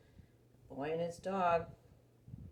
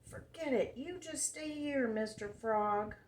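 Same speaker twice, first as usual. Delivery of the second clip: put-on boy yelling; 6 semitones higher than usual. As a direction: call out after the frog like the boy. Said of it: "the boy's yelling".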